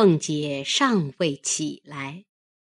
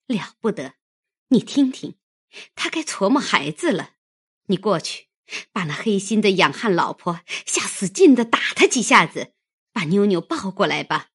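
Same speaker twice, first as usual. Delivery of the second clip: upset command; 3 semitones higher, faster than usual. Acted. Mistress upset at crying baby.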